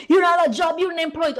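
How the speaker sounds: mocking quote. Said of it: "y'all love to pinpoint".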